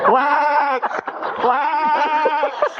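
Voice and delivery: high, loud bleating call; racist farm animal. Acted. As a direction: bleat it like livestock.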